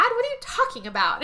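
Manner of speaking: high, innocent question; feigned innocence. Retold or imitated. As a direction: play dumb sweetly. Wife acting innocent.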